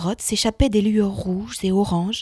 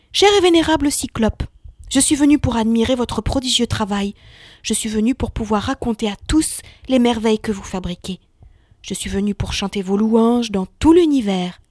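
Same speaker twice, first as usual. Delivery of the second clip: flattering. Acted. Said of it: "choisissant ses mots avec le plus grand soin".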